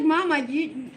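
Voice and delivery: a hint of the giggling daughter, trailing into breathless laughter; laughing daughter. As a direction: giggle out the apology. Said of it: "she's like".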